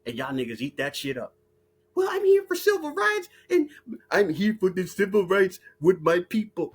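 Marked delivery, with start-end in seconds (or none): 1.9-6.7 mock quote. Mocking civil rights talk.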